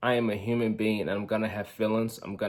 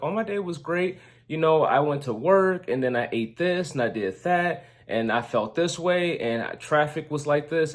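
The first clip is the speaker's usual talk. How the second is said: wife's bright chatty day recap, first words higher; excited wife; 4 semitones higher than usual. Retold or imitated. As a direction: mimic his wife happily rattling off her day. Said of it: "And she'll be like".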